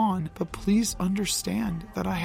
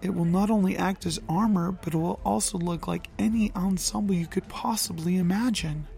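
lower, softened apology. Acted. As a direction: speak low and gentle. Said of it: "Loki's voice was low".

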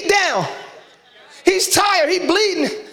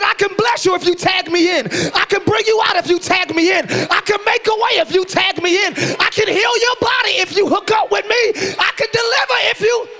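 preaching shout; 3 semitones higher than usual. Real, not acted. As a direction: build each promise bigger. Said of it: "I know I'm screaming".

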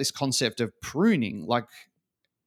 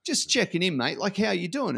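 higher, airy "just checking in, mate", not really listening; breezy uninterested hello; 6 semitones higher than usual. Retold or imitated. Leader passing Dan in the hall, breezy and uninterested. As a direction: toss off the greeting in passing. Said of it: "I wasn't really interested in the answer".

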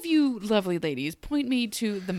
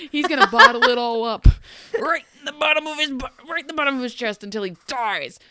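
louder, higher, laughing at the joke; laughing through it; 5 semitones higher, 7 dB louder than usual. Retold or imitated. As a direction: giggle through the punchline. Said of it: "And she's like".

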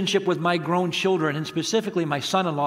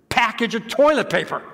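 mock indignation; 4 semitones higher than usual. Indignant retelling to his wife.

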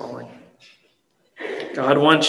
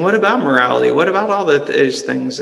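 louder, pushing objection; doubting inner voice; 5 dB louder than usual. Retold or imitated. Inner voice objecting to grace, louder and insistent. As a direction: challenge it like a nagging inner doubt. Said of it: "you might hear that voice in you saying".

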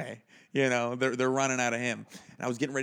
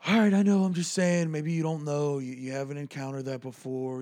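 backpedaling; 3 semitones higher, 5 dB louder than usual. Retold or imitated. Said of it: "the just change in his demeanor".

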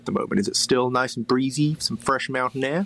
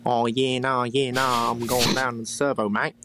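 bogan Aussie accent. Shown as a demonstration. Caller showing the accent he never picked up, bogan Aussie. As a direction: put on a broad bogan Australian accent. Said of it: "the bogan Aussie".

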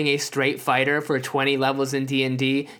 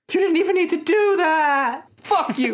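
laughing; 11 semitones higher than usual. Real, not acted. Laughing mock outrage.

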